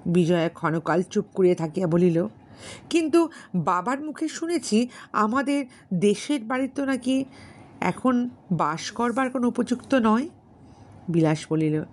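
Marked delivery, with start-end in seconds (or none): 2.9-10.3 put-on higher, hesitant young woman; gentle doubtful question; Vijaya's voice.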